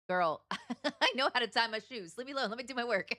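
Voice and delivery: exasperated retort through laughter; laughing mock protest. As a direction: push back playfully, laughing as you go. Acted retort to bossy game character.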